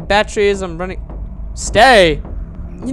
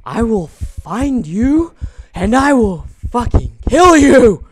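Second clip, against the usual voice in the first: menacing threat; 2 semitones higher, 4 dB louder, slower than usual. Real, not acted. Threatening the game monster.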